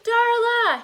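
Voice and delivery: high, loud calls for lost friends; piercing search calls; shouting over storm. A narrator's reading. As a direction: yell names above wind and rain. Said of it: "he shouted above the wind and rain".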